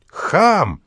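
high, sharp shout. Acted. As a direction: fling it after them. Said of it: "закричал Виктор Михайлович". (Виктор Михайлович кричит вслед)

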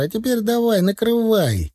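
high-pitched urging call; shouting. A narrator's reading. Yura urges him to cover the load, high shout. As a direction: shout orders high, volume held back. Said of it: "закричал Юра".

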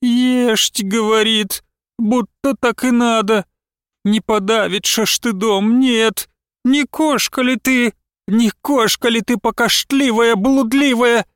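mock her words, then lash out; bitter mocking scolding. A narrator's reading. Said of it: "крикнула".

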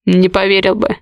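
dark, heavy mild agreement; grim agreement. A narrator's reading. Горецкий to heroine, grimly agreeing. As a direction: concede it darkly. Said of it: "мрачно согласился он".

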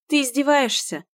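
high, sharp disbelief; affronted; indignant question. Acted. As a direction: challenge him outright.

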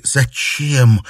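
strained. Acted. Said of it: "с трудом произнесла она".

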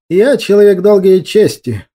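dignified. A narrator's reading. Expedition leader answers the ruler with dignity. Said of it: "с достоинством ответил лидер экспедиции".

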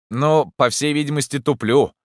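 spitting out water while talking; sputtering through river water; shower spray in face. Acted. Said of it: "отплёвываясь, проговорил Егор".

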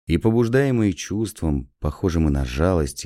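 usual speaking voice

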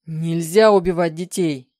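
husband yelling at his wife to forbid an abortion; furious yell. Acted. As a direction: roar it at her in rage. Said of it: "заорал он".

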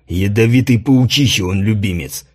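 low growl. A narrator's reading. Commander growling insults at the emperor. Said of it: "прорычал Гронер".

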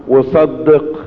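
slow, drawn-out call to the congregation; preacher's refrain. Acted. Preacher inviting the congregation to finish the refrain, slow. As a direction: pause and let them answer.

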